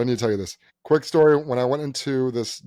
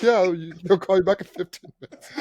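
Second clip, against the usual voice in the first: high, louder imitated desk voices; receptionists' reply; 7 semitones higher, 4 dB louder than usual. Receptionists telling older guy of callback, high imitation. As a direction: chirp it back in mock reassurance.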